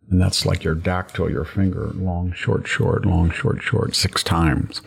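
chanting long, short, short beats; rolling dactylic verse. Shown as a demonstration. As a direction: tap out the meter long-short-short. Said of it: "written in dactylic hexameter".

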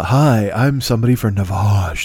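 mock creepy pitchman, drawn-out brand name; slow, lightly creepy imitation of a radio spokesman. Comedian mimicking the Navage commercial, slow creepy pitch. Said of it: "The way he says it is so creepy".

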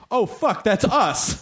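high-pitched mock astonishment; imitated shock. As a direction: act out someone's stunned realization. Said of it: "shock registering on your face of like".

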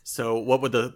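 words breaking into a laugh; giggling through the question. Real, not acted. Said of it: "laughing while asking".

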